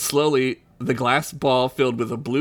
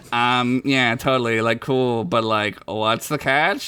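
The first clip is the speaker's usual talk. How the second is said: laid-back Chickpea; 4 semitones lower than usual. Acted. Chickpea's character voice, hesitant.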